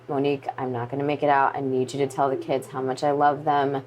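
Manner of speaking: subdued, composed farewell, retold; understated calm of a husband's last call. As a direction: relay bad news evenly and gently. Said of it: "he was the calm one in this".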